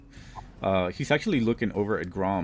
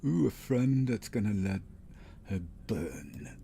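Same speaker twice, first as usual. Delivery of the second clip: put-on old hag. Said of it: "You hear a cackle behind you".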